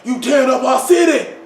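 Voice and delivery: mock angry dad voice, building to a shout; mimicking somebody's daddy. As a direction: play the scolding father, mad at the city. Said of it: "it was funny to me how he sounded".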